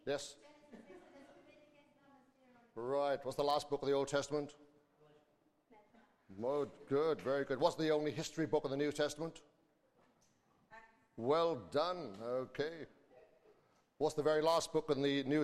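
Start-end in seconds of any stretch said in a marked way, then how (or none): none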